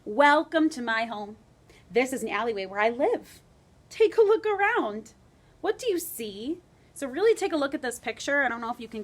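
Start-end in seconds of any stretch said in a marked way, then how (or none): 0.0-6.6 rat explorer. Acted.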